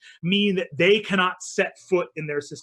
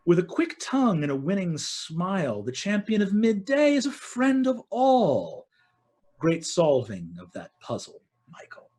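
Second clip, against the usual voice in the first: Queen of Midday; 3 semitones higher than usual. Acted. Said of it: "you see the Queen of Midday say".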